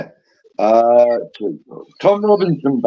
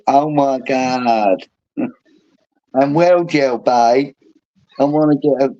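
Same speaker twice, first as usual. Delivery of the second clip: put-on Essex accent. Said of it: "do an Essex accent".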